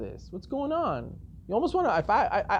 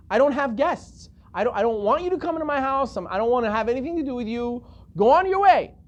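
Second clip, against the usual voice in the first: acted brusque refusal; 4 semitones higher than usual. Host refuses and dismisses visitor.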